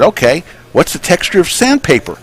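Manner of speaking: lightly voiced dog owner; dog owner asking. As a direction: lead the dog on. Owner asks dog in joke.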